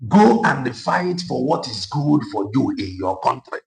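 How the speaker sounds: slow, drawn-out mimic of the South African speaker; mimicking his accent. Repeating the South African's words slowly in his accent. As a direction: echo his words slowly, copying how he said them. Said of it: "Forget how he said it".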